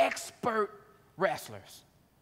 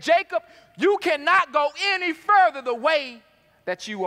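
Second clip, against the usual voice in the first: voice of God; 6 semitones higher, 5 dB louder than usual. Acted.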